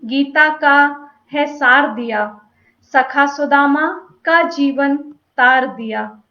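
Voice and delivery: measured, deliberate verse reading with pauses between phrases; poem recitation. Acted. (कविता पाठ, ठहर-ठहर कर)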